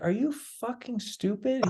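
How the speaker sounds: high, slow, disbelieving insult; imitating a furious maestro; incredulous scolding. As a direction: act out the teacher's outrage.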